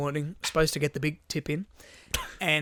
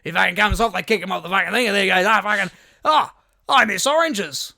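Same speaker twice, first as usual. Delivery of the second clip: rambling delivery driver; 5 semitones higher, 9 dB louder than usual. Retold or imitated. Mocking the driver's pointless footy story, loud and slowed at the end. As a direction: stretch out I miss oranges like it's profound.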